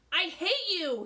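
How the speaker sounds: loud, high "I hate you"; boy screaming at his teacher; shouting. Acted. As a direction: yell it in her face. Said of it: "he shouted in her face".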